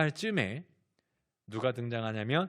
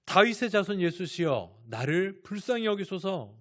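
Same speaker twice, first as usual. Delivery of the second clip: imitated blind beggar's raised plea; crying out; 3 semitones higher, 4 dB louder than usual. Blind Bartimaeus calls to passing Jesus for mercy, crying out. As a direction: call out for mercy, higher than usual. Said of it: "소리 소리를 지릅니다".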